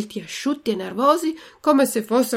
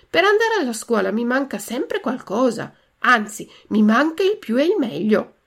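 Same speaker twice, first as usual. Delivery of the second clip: put-on higher, lively child-puppet voice; higher and insistent puppet; eager puppet boy; 3 semitones higher, 4 dB louder than usual. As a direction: pipe up as a puppet with a request to make.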